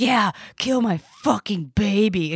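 slow, bitter mock outburst at vet; retold cussing out. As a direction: re-enact cussing out the vet, drawn out. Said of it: "cussed out a vet".

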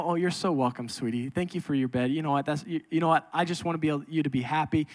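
soft, sincere dad voice; tender father. Retold or imitated. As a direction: speak lovingly to a little girl. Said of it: "And I go".

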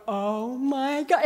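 slow, breathy-laughing dread; slow nervous dread. Retold or imitated. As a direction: let it stretch out in fear. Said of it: "and I go".

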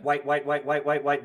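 low, soft rattled-off repetition; flipping mental Rolodex. Retold or imitated. Friend mocks another's search for names, muttered rapid list. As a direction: run through the list under your breath. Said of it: "entire Rolodex was spinning".

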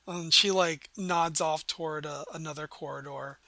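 normal talking voice

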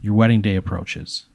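hushed storytelling. Pretend. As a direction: unfold the wedding scene gravely, line by line. Narrates an imagined wedding scene.

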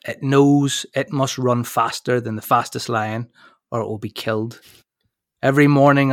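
locker-room pep talk, grand and dramatic; big motivational voice. Shown as a demonstration. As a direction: deliver it like a coach in the changing rooms. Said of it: "in my big, uh, we're in the changing rooms, motivational voice".

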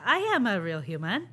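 robot voice through laughter; robot faking human. Pretend. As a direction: play a robot insisting it's human, laughing. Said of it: "it's so creepy".

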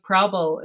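"Probble" said with the middle syllable swallowed; "Probble" for problem, mock Dorinda; Dorinda's probble. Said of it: "she doesn't even say problem".

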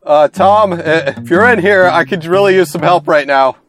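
strained, urgent call to Tom; desperate plea for help. Acted. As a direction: beg for help, hurt and scared. Wounded player calls for help.

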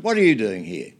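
loud, challenging retort; quite loud. Retold or imitated. Jacoby challenging Whitlam who sat next to him, loud. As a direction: call it out sharply across the bench. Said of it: "quite loud".

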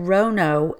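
"rono" with a long O first; mispronounced start. Retold or imitated. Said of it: "so she said".

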